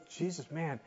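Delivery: high-pitched incredulous questioning; complaining onlookers. Acted. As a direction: act out a bystander's exasperated complaint. Voicing onlookers questioning Jesus' delay.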